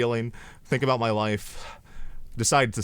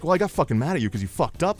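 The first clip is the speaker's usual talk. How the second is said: fast, higher-pitched mock comeback; mock bickering; 5 semitones higher, faster than usual. Advisor snaps back at coworker, hurried mock anger. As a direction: fire back quickly at a coworker. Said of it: "they start going at each other".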